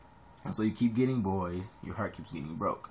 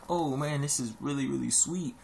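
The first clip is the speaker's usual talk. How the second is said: delighted discovery; 6 semitones higher than usual. Retold or imitated. Quoting a first taste of real tea.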